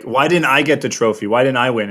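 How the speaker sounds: high, loud whiny complaint; spoiled brat. Retold or imitated. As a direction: whine like a spoiled kid denied a trophy. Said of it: "the spoiled brat sort of thing".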